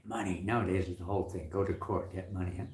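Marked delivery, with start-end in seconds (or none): none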